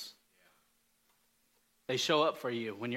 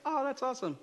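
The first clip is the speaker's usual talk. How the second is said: put-on kid cheering; 10 semitones higher, faster than usual. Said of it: "It's like".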